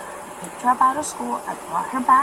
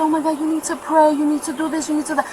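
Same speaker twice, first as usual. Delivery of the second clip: coworker's pleading; 4 semitones higher than usual. Retold or imitated. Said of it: "And she said".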